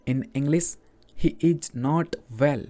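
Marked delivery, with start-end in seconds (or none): 1.2-2.7 each word said slowly and evenly; slow dictation. Shown as a demonstration. Teacher reading a sentence slowly to Hindi learners. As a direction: read it slowly for learners to repeat. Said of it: "अब यहाँ पर जो well आया है".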